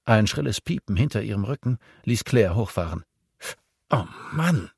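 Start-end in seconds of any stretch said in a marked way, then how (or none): 3.9-4.7 exasperated higher "Oh Mann"; cursing. A narrator's reading. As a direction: let the frustration out in a groan-curse. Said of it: "fluchte sie".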